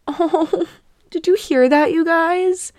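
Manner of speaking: high, smitten coo; cooing delight. Real, not acted. Host to listeners as her cat meows, cooing delight.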